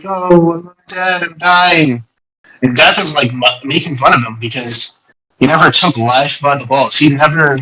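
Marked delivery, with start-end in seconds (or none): 0.0-2.0 mock mopey whine. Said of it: "He's like".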